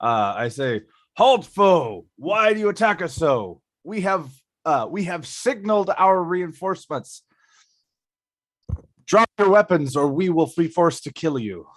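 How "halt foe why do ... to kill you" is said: commanding, imperious challenge. Acted. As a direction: speak with grand authority to a foe. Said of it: "I speak up in my, my deepest, most imperious voice".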